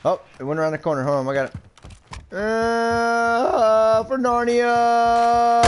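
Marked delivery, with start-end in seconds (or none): 2.3-5.6 slow, high, drawn-out heroic cry; mock battle cry. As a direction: ham up a fantasy charge. Charging joke battle cry.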